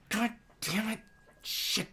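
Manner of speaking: very soft, muttered curse; hushed, exasperated swearing; swearing under breath. Retold or imitated. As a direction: curse quietly to yourself, barely voiced. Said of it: "I'm just swearing under my breath".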